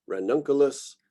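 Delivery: ranunculus with the beat on NUN; stress on third-to-last syllable. Shown as a demonstration. Lecturer showing students genus names, antepenultimate stress on ranunculus. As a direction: hit NUN in ranunculus, two light syllables after. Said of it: "pronounce that as the emphasized syllable".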